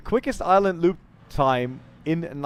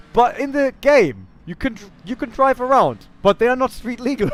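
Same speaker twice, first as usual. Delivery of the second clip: mocking imitation; 7 semitones higher than usual. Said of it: "he's like".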